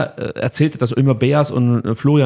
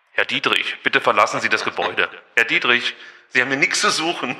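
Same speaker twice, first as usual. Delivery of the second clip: megaphone announcement, softer and laughing; through a megaphone; 4 dB quieter than usual. Shown as a demonstration. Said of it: "Vielleicht nur kurz den hier".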